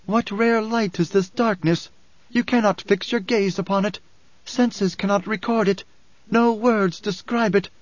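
high, measured, solemn declamation; oracle's booming proclamation. A narrator's reading. Alia addresses pilgrims across the nave, booming oracle. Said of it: "Her amplified voice boomed across the nave".

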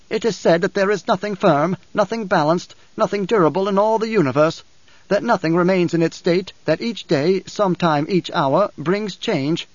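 measured, elevated quotation from prophecy; solemn scripture recital. A narrator's reading. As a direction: intone it like a sacred text.

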